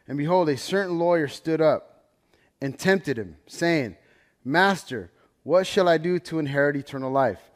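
solemn reading of Genesis; scripture reading. Acted. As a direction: proclaim the verses to the congregation. Reads Luke aloud as scripture.

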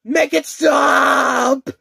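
high terrified shouting; panicked screaming. Acted.

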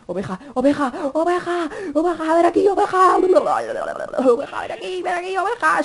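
high, sing-song call to a sheep. Real, not acted. Calling a sheep to come.

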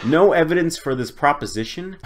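rising, disbelieving repeat of no evidence; scoffing at the opponent's claim, rising question; incredulous echo. Retold or imitated. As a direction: throw their words back in disbelief.

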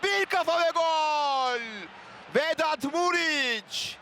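slow, high, stretched goal cry; screaming football commentator. Real, not acted. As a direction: draw the goal call out.

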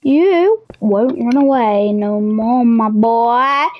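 low, slow villain taunt; slow menace. Pretend. Gloating at Toby who tried to run away, slow low menace. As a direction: drag it out like a gloating captor.

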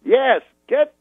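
imitating Cosby quizzing his manager; Bill Cosby. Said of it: "He goes".

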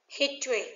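"History" with the beat on HIS; first-syllable stress. Shown as a demonstration. Teacher reading answer choices to students, first-syllable stress on "History". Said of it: "dấu nhấn ở phần đầu".

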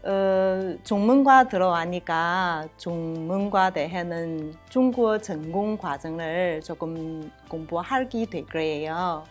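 Korean with a Chinese accent. Real, not acted. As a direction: native Chinese speaker talking Korean. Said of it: "제가 중국 사람이라서 한국말 좀 서툴렀는데".

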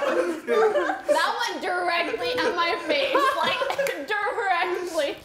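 laughing. Real, not acted. Hit in face, laughing.

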